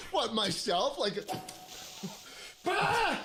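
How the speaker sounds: laughing hard. Real, not acted. Bursts out laughing, squeals.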